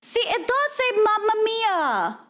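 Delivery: high-pitched amused insistence; insistent. Real, not acted. Insisting on what was heard.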